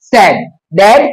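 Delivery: डैड and सैग said very slowly, one by one; teacher modelling rhyme words slowly; slow sounding out. Shown as a demonstration. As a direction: spell the sound out slowly for a beginner. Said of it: "थोड़ा सा हम इसको typical भी कर सकते हैं".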